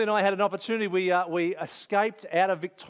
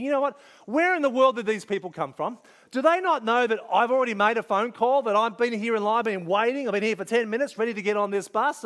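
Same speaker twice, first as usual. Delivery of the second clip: indignant; 3 semitones higher than usual. Retold or imitated. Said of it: "I'm getting a little indignant".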